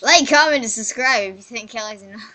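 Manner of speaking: loud announcer plug, then dropping off; hammed-up YouTuber plug. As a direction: belt the like and subscribe. YouTuber outro call.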